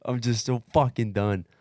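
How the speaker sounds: loud, high, fed-up cry with laughter breaking through; half-laughing exasperated yell at the people fussing over him; exasperated outburst. Retold or imitated. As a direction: blurt it out like you've hit your absolute limit. Retelling being utterly spent.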